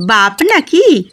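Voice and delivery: son-in-law sneering at the mother-in-law; sarcastic. Acted. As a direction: scoff at the idea. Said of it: "Jagmohan বলে ব্যঙ্গ করে".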